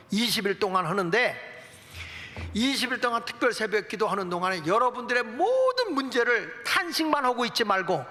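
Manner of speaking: ordinary talk, nothing marked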